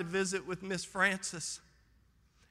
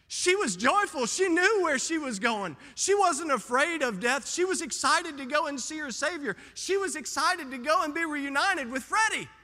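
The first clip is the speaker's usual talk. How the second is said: rising joy; 6 semitones higher than usual. Real, not acted. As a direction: swell with excitement about her faith. Preacher builds on joyful dying woman.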